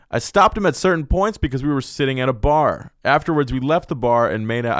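stiff, even news-anchor read; accidental news-reporter delivery. Shown as a demonstration. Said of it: "I said that like a fucking news reporter".

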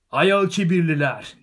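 loud, high, drawn-out heckling yell; elderly hobbit shout. A narrator's reading. Elderly hobbit calling out from behind the tent, high loud shout. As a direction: shout the correction across the crowd. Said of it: "diye bağırdı yaşlıca bir hobbit".

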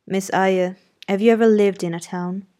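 clipped-free, blunt gentleman talk, only lightly done; the master brushing off praise, mildly gruff; lightly voiced gruff master. Rochester questioning.

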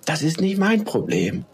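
"Das ist nicht mein Problem" high and pointed; emphatic and deliberate. A narrator's reading. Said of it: "sprach diese Worte betont langsam aus".

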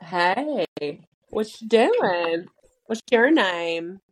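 slow, drawn-out mock come-on; flirty trashy greeting. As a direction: ham up a tacky pickup line. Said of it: "go there and just".

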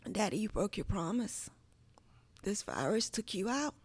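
soft, subdued address to lost father; quiet grief. Retold or imitated. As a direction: retell it hushed, with understated hurt. Retelling words to her late father.

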